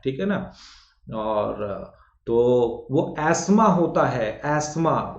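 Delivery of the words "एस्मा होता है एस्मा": slow एस्मा, no 'th'; correct pronunciation. Shown as a demonstration. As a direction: stretch एस्मा as 'as-maa'. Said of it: "उच्चारण करके भी आप लोग देखिए".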